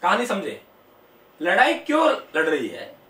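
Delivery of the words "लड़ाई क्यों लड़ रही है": lower-pitched, mildly tender question; a touch of coaxing affection, acted out; acted loving tone. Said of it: "बहुत प्यार से कहा". (हल्के प्यार भरे लहजे का अभिनय)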